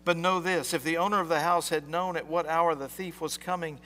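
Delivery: measured formal scripture reading; gospel reading. Acted. Priest reading scripture to the congregation, formal. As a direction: read the gospel aloud to the church.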